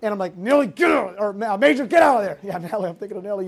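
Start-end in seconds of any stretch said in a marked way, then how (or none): 0.4-1.2 mock yell. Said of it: "yelling at Nellie". 1.3-2.4 mild mock yell. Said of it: "yelling at Nellie".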